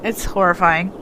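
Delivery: stuffy, blocked-nose voice; congested. Real, not acted. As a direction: talk like your nose is blocked. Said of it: "I am so congested".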